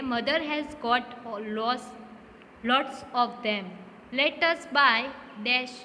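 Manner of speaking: slow, spaced-out reading with pauses at each blank; slow dictation reading. Shown as a demonstration. Teacher reading Sonia's line to students, slow and spaced. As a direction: read it out word by word for the class.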